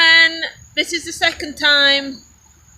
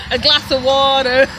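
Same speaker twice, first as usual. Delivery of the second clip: put-on American accent on water, T turned to D; American "water", said as "wahder"; 3 dB louder than usual. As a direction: imitate an American asking for water. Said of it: "say it in the American accent".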